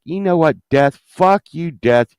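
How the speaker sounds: indignant retort, mildly heated; mad at Death. Retold or imitated. Patient telling off Death, mildly indignant. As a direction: tell Death off with a touch of acted anger. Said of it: "I got all mad at Death".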